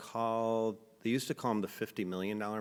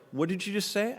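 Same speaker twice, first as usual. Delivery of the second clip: much higher, louder threatening question; menacing challenge; 11 semitones higher, 5 dB louder than usual. Retold or imitated. Stranger confronting him after the insult, threatening. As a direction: square up to him.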